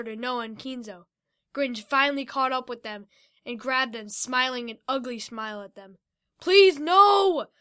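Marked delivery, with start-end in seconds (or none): 6.4-7.5 loud, higher desperate plea; pleading. Acted. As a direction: beg to be let go. Noah grabbed by the giant.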